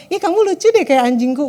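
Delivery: mock sweet, affectionate tease; a partner teasing cutely, the harmless way of saying it; playful cute teasing. Shown as a demonstration. Preacher demos a lover's playful tease, mock sweet. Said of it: "Bukan, bukan kayak gini ya".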